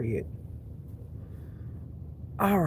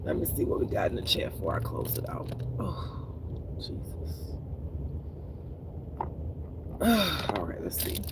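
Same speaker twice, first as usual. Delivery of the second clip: whispered aside; 3 semitones lower, 7 dB quieter than usual. Real, not acted. Muttering to herself.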